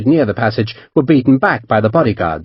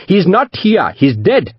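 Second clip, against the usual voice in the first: higher, firmly defiant merchant; defiant anger; 7 semitones higher, slower than usual. A narrator's reading. Merchant insisting to the captain that Nana Rao is dead, mildly angry. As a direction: insist it flatly, with mild anger. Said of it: "defiance now making his voice angry".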